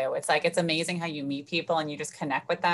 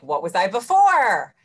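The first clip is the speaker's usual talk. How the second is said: mock panicked question; 4 semitones higher, 9 dB louder, slower than usual. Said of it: "You're like".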